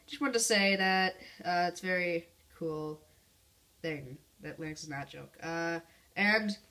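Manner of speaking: ordinary talk, nothing marked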